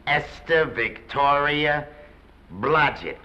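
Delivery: slow, weighty read of the name; appalled, drawn-out repetition. Acted. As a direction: draw the name out in disbelief. Agent repeats the unfortunate name.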